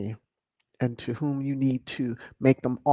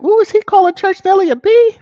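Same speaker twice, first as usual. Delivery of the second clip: high, loud gasping ooh; scandalised, squeal the question; shocked gossip; 12 dB louder than usual. Retold or imitated. Vlogger reading a viewer's comment, loud shocked squeal. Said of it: "I'm like".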